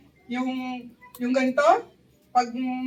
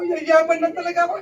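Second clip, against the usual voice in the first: louder excited repeat; louder second time, sure of getting rich; 3 dB louder than usual. Retold or imitated. Talking to himself about getting rich, excited. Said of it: "excited na ako".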